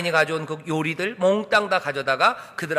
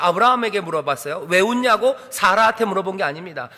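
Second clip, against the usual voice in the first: normal talking voice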